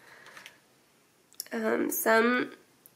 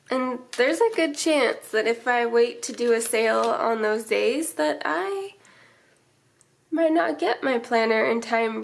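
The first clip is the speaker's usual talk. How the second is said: stuffy, blocked-up nasal voice; talking through a stuffy nose. Real, not acted. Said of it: "Sorry if I sound a little nasally".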